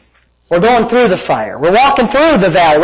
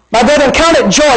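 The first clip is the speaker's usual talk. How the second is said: raised, excited sermon voice; fired-up preaching; 6 semitones higher than usual. Real, not acted. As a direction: preach the verse with rising zeal. Preaches scripture with high energy.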